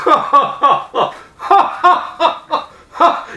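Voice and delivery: high, loud hammed-up cackle; mock the panel's laughter; mocking fake laugh. Mocking TV panel laughing at the name, hammed up. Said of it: "everybody goes".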